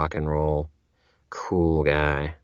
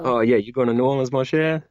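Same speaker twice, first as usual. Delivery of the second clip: a playful Louisiana bayou Cajun accent, pitched up; 6 semitones higher than usual. Shown as a demonstration. A host off to New Orleans gets teased in a Cajun accent. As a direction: Cajun accent, teasing like a bayou local greeting a visitor. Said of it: "Let me hear it".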